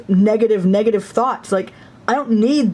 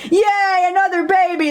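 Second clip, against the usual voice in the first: much higher, bubbly cheer; hammed-up happy squeal; mock cheerful; 8 semitones higher than usual. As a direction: play the delighted sister. Voicing happy sister.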